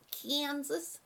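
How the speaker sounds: put-on American accent on "Kansas", vowel drawn out; regional US accent. Shown as a demonstration. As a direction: say "Kansas" like someone from another side of the States. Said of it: "they don't say it like that".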